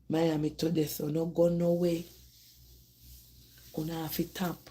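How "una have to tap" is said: quiet warning. Real, not acted. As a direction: drop the voice right down on "Una have to tap". Repeats warning, first take quiet.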